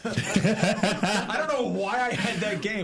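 laughing. Real, not acted. Laughing at own pick.

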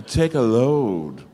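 slow, booming imitation, falling at the end; hammed-up insistent host; loud acted urging. Bill acted out, urging Louis.

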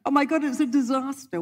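high, panicky mock shriek of a passenger; mock scream. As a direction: overdo the girl's panic in a shrill-free high yelp. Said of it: "she screamed so loudly".

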